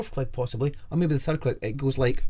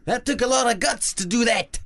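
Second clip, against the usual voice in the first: higher-pitched, put-on Southern American accent; 6 semitones higher than usual. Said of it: "that's my Southern American voice".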